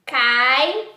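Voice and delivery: "Caixa" split into syllables, cai-xa. Shown as a demonstration. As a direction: say "Caixa" in two separate syllables. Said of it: "vou separar a palavra caixa pra você". ("Caixa" separada em sílabas, cai-xa)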